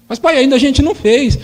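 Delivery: mock child protest. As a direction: object like a wronged kid.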